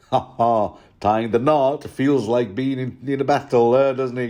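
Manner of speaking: lightly hammed-up hearty Lothar; chummy, back-slapping tone; mock jolly Lothar. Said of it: "says Lothar".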